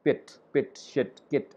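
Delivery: quick short i in "pit" and "kit"; short I sound. Shown as a demonstration. Teacher giving examples from the chart, short I sound. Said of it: "gives the sound of I".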